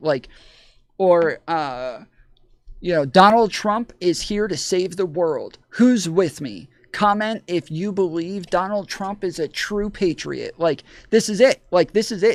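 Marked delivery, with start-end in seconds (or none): 3.1-10.6 mock gushing, fawning, sycophantic tone. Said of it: "it's just stuff like that".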